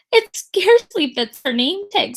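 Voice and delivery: mock her name gleefully; snide kid. Rita mocking to the teacher, snide. Child mocks.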